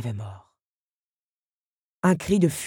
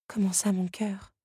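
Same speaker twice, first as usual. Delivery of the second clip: higher, hushed bewilderment; puzzled question; 5 semitones higher, 4 dB quieter than usual. Acted. Belle wonders what the scarab means, puzzled. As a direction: ask it as if baffled. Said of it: "s'interrogea la jeune femme".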